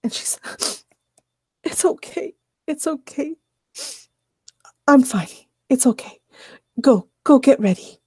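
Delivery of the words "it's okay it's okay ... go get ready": higher, lightly voiced tearful woman; shaky reassurance. Annie waving her coworker away, lightly tearful. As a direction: brush her off, still upset.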